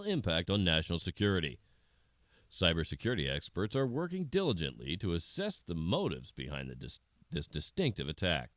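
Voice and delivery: measured anchor delivery of breaking news; news read. Acted. News anchor briefs viewers on the lab breach, in a formal news read. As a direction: read it like an evening news bulletin.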